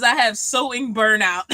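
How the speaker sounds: laughing. Real, not acted. Reads comment, laughing.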